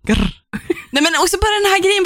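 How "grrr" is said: mock growl. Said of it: "Nu är det riktigt svartsjuk".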